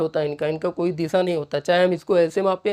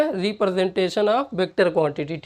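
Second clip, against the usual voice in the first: slow dictation; much slower than usual. Shown as a demonstration.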